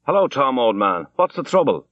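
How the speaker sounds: hearty call across the bar. A narrator's reading. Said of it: "he called out".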